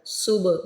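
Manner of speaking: सुब with echoing qalqala b; सुब, b with a clear echo. Shown as a demonstration. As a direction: bounce the b in सुब. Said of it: "वहाँ पे कलकला होता है।".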